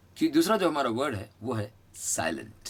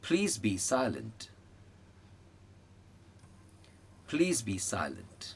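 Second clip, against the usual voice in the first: slow model phrase; 6 dB quieter, much slower than usual. Shown as a demonstration. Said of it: "ये वाला बोलो".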